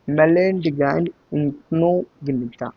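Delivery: "malign incognita" broken up slowly, haltingly; deliberately wrong reading. Shown as a demonstration. Teacher misreads the name so students learn it, halting mispronunciation. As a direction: misread "malign incognita" piece by piece, with long gaps. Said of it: "first मैंने पढ़ा था गलत".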